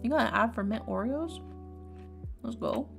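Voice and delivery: normal talking voice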